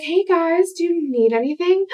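high bright cheerful hello; sing-song friendly greeting; chirpy greeting. Retold or imitated. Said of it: "be like".

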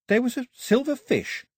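high, puzzled musing; half-remembering, wondering aloud. A narrator's reading. Daphne puzzles aloud over a lost memory, wondering. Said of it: "she wondered aloud".

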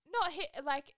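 mock UK accent, easing back down; bad UK accent. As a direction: clumsily imitate a Manchester lad's accent. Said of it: "my U K accent is not good".

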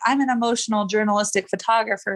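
mocking pompous voice; jeering taunts. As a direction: say it like a sneering parody. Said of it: "I go into a different voice, like I'm mocking it".

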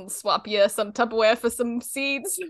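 put-on Boston bird-seed seller; Boston accent. Woman bartering Tupperware for seeds, joking Boston accent. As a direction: play her with a Boston accent. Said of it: "I don't know why we made her Boston".

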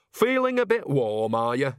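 lightly voiced cheeky old woman; a hint of a sly old granny; old witch voice. Nanny teasing, high.

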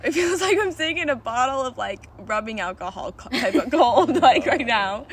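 slow, giggly and spaced out; stoned. Real, not acted. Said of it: "this edible is kicking in hard".

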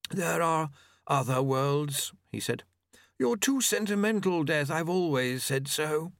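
lightly voiced, airy Famine. A narrator's reading. Famine answers Death.

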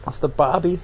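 rough stab at an Australian accent; slightly hammy Australian twang; bad Australian accent. Shown as a demonstration. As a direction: put on a bad Aussie accent. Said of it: "that was such a bad".

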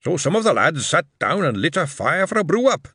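put-on old dwarf father recounting Coombe Valley to his son; old dwarf veteran. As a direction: tell it like an old soldier by the fire. Old dwarf retells the battle.

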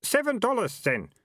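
high, loud hawker voice; a pushy market trader voice; gruff townsman. A narrator's reading. Townsman character voice.

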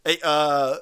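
high-pitched mock news anchor; hammed-up cable news host; Cuomo. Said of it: "I think that was Cuomo".

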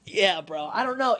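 normal talking voice

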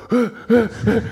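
high, loud crowd yell; crowd shouting. Retold or imitated. Crowd calling for the star to appear, loud high yell. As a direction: yell like an eager fan in the crowd. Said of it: "todo el mundo gritando".

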